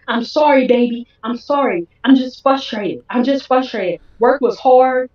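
mildly pleading, quick-repeated excuses; retold begging apology. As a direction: imitate a partner begging to be forgiven. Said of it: "got down on his knees".

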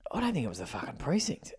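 whispered aside, quiet and breathless; inner whisper. Retold or imitated. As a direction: whisper it like a guilty private thought. Private thought to himself.

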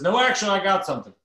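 high, hammed-up president, slowing on the poo; mock Obama, earnest about poo; playful impression of the president. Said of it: "then Obama says".

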